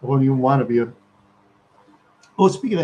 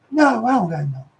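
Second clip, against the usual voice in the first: high, whiny street-talk refusal; put-on indignant denial; retold protest; 8 semitones higher, 4 dB louder than usual. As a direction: plead broke in an exaggerated high voice. Retold refusal to money demand.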